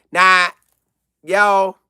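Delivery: usual speaking voice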